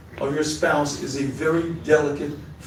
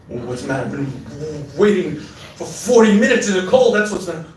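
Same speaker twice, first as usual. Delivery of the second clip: annoyed wife; 3 dB louder than usual. Acted. Wife snaps back at husband.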